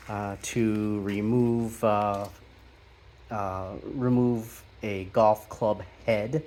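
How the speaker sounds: halting, with uhs and a restarted word; stumbling over words. Real, not acted. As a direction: hesitate and restart mid-phrase, searching for words. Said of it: "sorry I'm stuttering so much".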